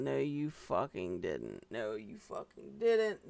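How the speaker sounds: low, slow, mocking repeat; mock deep scoff. Scoffing at the letter's claim.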